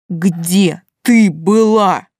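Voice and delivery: slow, loud growl through clenched teeth. Acted. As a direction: spit each word out, barely held back. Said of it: "прорычал он, сжимая зубы после каждого слова".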